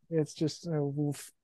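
choked up. Real, not acted. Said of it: "I am choking up talking about it".

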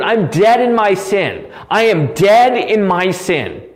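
worked up, forceful and insistent; impassioned near-yell. Real, not acted. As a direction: hammer each statement home with rising passion. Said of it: "I don't know why I'm yelling".

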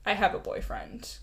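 unvoiced whisper. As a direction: breathe it as a whisper. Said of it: "I should have been like".

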